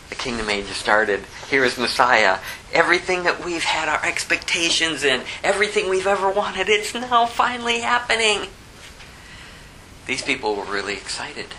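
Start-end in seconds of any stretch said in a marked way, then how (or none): 2.7-8.5 rising excitement. Retold or imitated. Crowd's excitement building.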